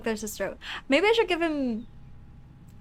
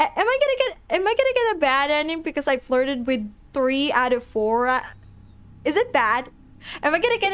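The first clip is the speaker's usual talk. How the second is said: panicked; 3 dB louder than usual. Real, not acted. Panicking about bad ending.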